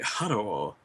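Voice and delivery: slow, low, deliberately bad Asian accent impression. To stream viewers, the Doug Basham impression in a bad Asian accent. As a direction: lowball a cheesy Asian accent, drawn out. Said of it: "a really bad Asian accent".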